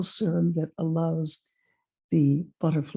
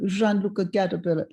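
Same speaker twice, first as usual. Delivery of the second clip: lightly imitated French accent; French-accented old gentleman. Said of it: "he said to me in a French accent".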